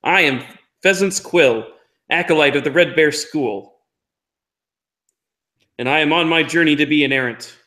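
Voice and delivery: chest out, announcing her name loudly and proudly; a small girl puffing herself up, declaring who she is; proud declaration. Acted. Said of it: "push my shoulders back".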